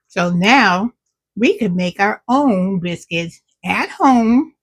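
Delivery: talking with mouth full. Real, not acted. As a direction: speak around a mouthful. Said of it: "I'm trying not to talk with my mouth full".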